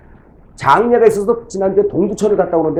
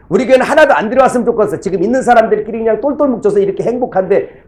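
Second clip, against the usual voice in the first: fast, higher, laughing through a teasing joke; 5 semitones higher than usual. Pretend. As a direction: tease the congregation while laughing. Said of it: "제가 농담을 했어요".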